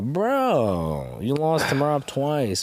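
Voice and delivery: long drawn-out, falling "Bro", then slowly; incredulous reaction. Retold or imitated. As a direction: imitate everyone's disbelief, stretching the words. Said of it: "everyone's like".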